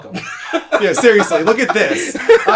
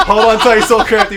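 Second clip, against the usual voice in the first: louder, laughing sign-off; 3 semitones higher, 5 dB louder than usual. Shown as a demonstration. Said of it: "Do the fucking commercial break".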